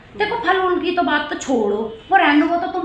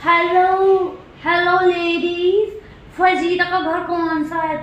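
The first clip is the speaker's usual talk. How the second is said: lightly sung mock hello to the ladies; hammed-up fancy lady asking the way; posh mother-in-law; 3 semitones higher, much slower than usual. Neighbour mimics the stylish old lady asking the way, mock sing-song. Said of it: "और वो इधर पूछ रही".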